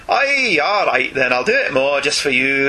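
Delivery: a playful nod to the Scottish brogue, done on request; teasing Scottish accent for a listener who asked for it; Mark Miller impression. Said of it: "It's not just a Mark Miller impression".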